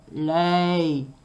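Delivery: loud thundering ogre command. Acted. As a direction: thunder the order. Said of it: "in a voice of thunder".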